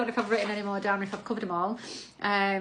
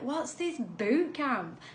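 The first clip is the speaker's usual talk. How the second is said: curious followers asking; 4 semitones higher, much slower than usual. Retold or imitated. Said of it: "So people were like".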